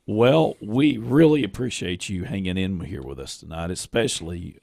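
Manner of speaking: hoarse, croaky frog voice; talking through a croaky throat. Real, not acted. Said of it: "given my frog voice".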